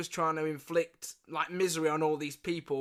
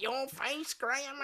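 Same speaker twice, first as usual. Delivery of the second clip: higher but hushed tease; gotcha taunt; 8 semitones higher, 5 dB quieter, slower than usual. Retold or imitated. Nan teasing her grandson after faking death, hushed. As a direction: tease the fooled grandson softly. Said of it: "She was like".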